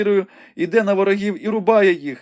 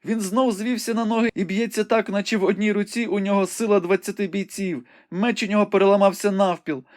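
joyful excitement; 11 semitones higher than usual. A narrator's reading. Rebecca joyfully tells Ivanhoe the knight rose again, high and excited. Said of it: "скрикнула у радісному збудженні".

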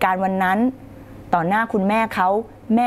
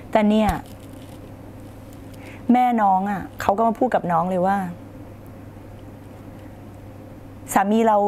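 gentle wife's talk; 2 semitones lower than usual. Shown as a demonstration. Wife calmly tells husband how she felt, gently. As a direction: coax him gently, no blame. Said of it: "แล้วคุณก็บอกเขาว่า".

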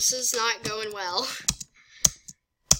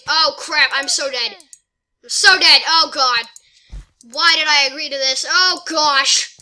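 loud dismay; 2 semitones higher, 7 dB louder than usual. Real, not acted. Losing the battle badly.

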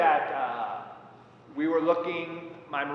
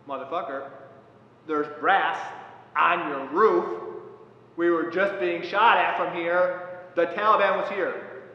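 louder, slowed angry confronting of the farmer, half yelled; angry retold yell; 4 semitones higher, 7 dB louder than usual.

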